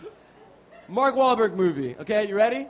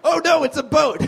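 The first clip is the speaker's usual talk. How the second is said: a hint of a panicked bystander; a light, laughing "oh no"; mock panic; 5 semitones higher, 4 dB louder, faster than usual.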